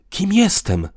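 "Kim jestem" pitched high and firm; emphatic repeat. A narrator's reading. Man repeats "Kim jestem" to partner, high and emphatic. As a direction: hammer home "Kim jestem". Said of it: "powtórzył dobitnie".

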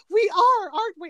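high, hopeful question, softening at the end; earnest Martin Short. Retold or imitated. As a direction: imitate wide-eyed sincerity. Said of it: "the sincerity in Martin Short's voice".

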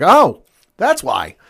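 loud, high, drawn-out oh; exaggerated retold aha moment; sudden realization. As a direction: act out the penny dropping. Retelling their sudden realization at match.

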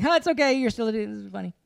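mock reassuring. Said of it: "They were like".

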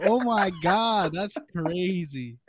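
slow, stretched-out amazement; stunned disbelief. Real, not acted. To a friend's story, drawn out and amazed. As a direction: let "that's" hang, falling in real disbelief.

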